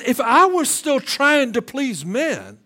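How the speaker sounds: measured reading of Paul; first pass, read at full voice. Shown as a demonstration. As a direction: read it with weight. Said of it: "Let me slow it down a little bit".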